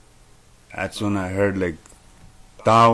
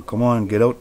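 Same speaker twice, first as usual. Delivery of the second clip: pleading; 4 semitones higher, 4 dB louder than usual. Retold or imitated. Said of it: "I was just pleading for them".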